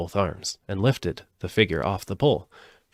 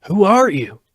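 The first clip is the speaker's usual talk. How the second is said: scarecrow voice; 11 semitones higher, 9 dB louder than usual. Acted. Scarecrow asks.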